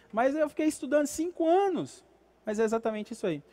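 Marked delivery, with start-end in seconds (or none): 0.1-2.0 high, indignant protest; indignant graduate. Retold or imitated. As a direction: voice the frustrated graduate. Voicing frustrated graduate.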